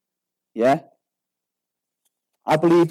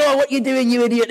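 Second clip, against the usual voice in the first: mock angry driver, pitched up; road-rage outburst; 5 semitones higher than usual. Angry driver confronting the moped rider, mock outrage.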